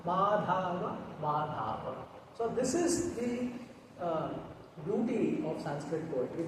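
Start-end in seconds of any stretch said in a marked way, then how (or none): 0.1-2.0 tender repetition. Shown as a demonstration. Teacher shows students the name's effect, tender fading. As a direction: let the name fall away gently. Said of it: "the same effect as Madhava".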